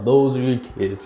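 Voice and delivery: quoted in a lightly put-on voice; quoted line. Gohan tells Vegeta about his kids, lightly voiced. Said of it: "Blah, blah, blah".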